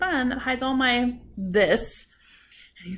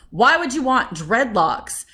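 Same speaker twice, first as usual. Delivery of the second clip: incredulous; 6 dB louder, slower than usual. Retold or imitated. Quoting a rude man's incredulous question.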